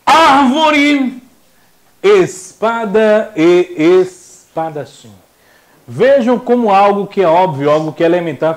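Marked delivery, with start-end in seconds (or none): 0.0-1.2 Árvore, high and loud on the AR; stressed first syllable. Shown as a demonstration. Teacher calls out example word to class, first syllable stressed. 2.0-5.1 espada e espadachim, slow and broken after ES; syllable by syllable. Shown as a demonstration. Teacher gives example words to class, slowly sounded out.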